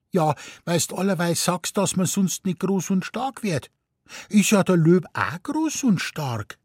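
put-on high, quick child's chatter; cheeky little boy. A narrator's reading. Little boy telling mummy about the pacing lion, high and eager. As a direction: blurt it out like a small boy.

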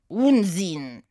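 Satie mit französischem Akzent, abwinkend; französischer Akzent. Acted. Satie widerspricht. (Satie widerspricht Oda mit französischem Akzent)

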